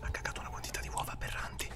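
hushed whisper while hiding; disgusted hushed whisper. Real, not acted. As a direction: keep it under your breath.

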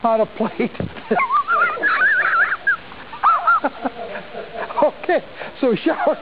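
forecast through bursts of giggles; trying not to laugh. Real, not acted. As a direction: keep reading despite laughter. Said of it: "I gotta get through this".

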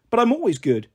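put-on high, earnest little girl protest; protesting child. A narrator's reading. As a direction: insist like a small child. Little girl protests she's good.

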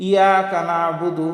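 "ইয়াকা নাবুদু" starting straight on YA; dropped hamza. Shown as a demonstration. Teacher showing many readers' mistake, dropped hamza. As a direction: skip the opening I of "ইয়াকা". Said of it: "এর উচ্চারণটা বাদ দিয়ে".

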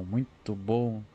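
very slow, stretching out the bom; drawn-out praise. Real, not acted. Streamer relishing the armor upgrade, said very slowly. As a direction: savor each word, dragging it out.

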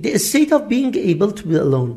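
very slow, careful English read for learners; slow classroom dictation voice; slow example reading. Shown as a demonstration. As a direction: spell out each word slowly like a teacher. Teacher reads dictionary definition.

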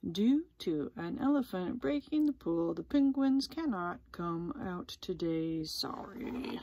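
measured public-notice voice; reading a sign. A narrator's reading. Sign tells visitors the penguins are unavailable, formal announcement. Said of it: "A sign on the wall read".

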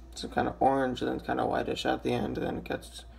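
raspy just-woke-up voice; rough morning rasp. Real, not acted. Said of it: "my voice is kind of raspy".

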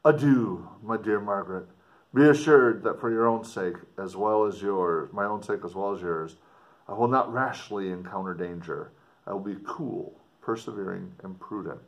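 put-on earnest, dramatic reading of an old letter; story narration. A narrator's reading. Explorer writing home to his sister, dramatic story reading. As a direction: read it like a gothic novel, with feeling. Reads letter closing aloud.

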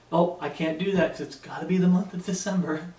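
mildly sarcastic mock objection; understated sarcasm. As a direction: lightly mimic a fussy objector. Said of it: "it's sarcasm".

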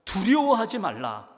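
두려워하지 read slowly and evenly as scripture; slow scripture quote. Acted. Jesus telling listeners not to fear, read slowly. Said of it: "예수님이 이렇게 말씀하십니다".

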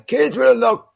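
high-pitched put-on voice; first stab at a silly voice; put-on game voice. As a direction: read it out in a high character voice. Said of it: "that's not the wrong voice".

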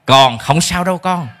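put-on slow, gentle comfort to a child; reassuring parent. Shown as a demonstration. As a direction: soothe the child after a bad test. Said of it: "Hãy nói với con sao".

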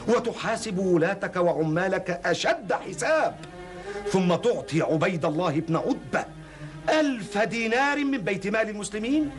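rising, outraged demand; indignant questioning. Acted. Visitor indignantly questions the caliph.

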